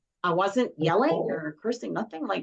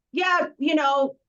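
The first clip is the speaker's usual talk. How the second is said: high, slow, snarky drawl; mimicking daughter; 7 semitones higher, 4 dB louder, slower than usual. Mother mimics daughter's sarcastic reply, high and slow. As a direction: draw it out mockingly. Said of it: "She's like".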